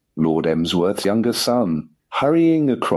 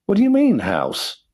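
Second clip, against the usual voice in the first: alarmed. Acted. Master to valet about the house, startled alarm. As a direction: jolt up in sudden panic.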